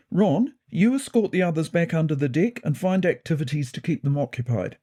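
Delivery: measured character voice giving orders; authoritative cat deputy; commanding deputy leader. A narrator's reading. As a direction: take charge and issue instructions to the team.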